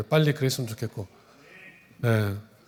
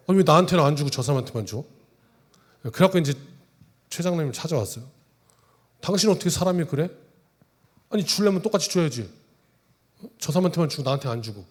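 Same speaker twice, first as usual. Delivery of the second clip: mock complaint; 2 semitones higher than usual. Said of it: "막 따지는 거예요".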